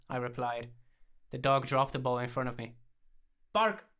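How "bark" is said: high, short barked word; dog bark. A narrator's reading. Dog answering the person's question, high bark. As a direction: yip the word like a small dog.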